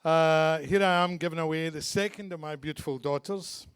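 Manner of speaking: thick Glasgow Scottish accent; broad Glaswegian speech. Real, not acted. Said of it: "don't worry if you don't understand my Glaswegian accent".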